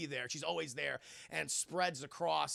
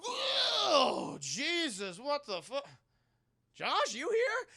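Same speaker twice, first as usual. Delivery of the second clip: put-on high, loud alarmed girl's voice; mock startled Dina; 9 semitones higher, 4 dB louder, much slower than usual. Dina calling for Josh in the woods, high shriek. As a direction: squeal it like a scared teen. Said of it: "And Dina's like".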